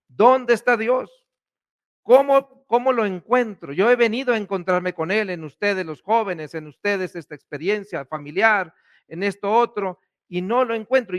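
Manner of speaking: pleading cry to God, high and strained at the start; desperate crying out. Retold or imitated. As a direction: voice the congregation's desperate search, calling out. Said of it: "gritando como desesperados".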